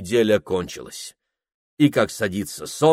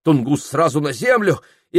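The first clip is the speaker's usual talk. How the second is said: ordinary delivery, nothing marked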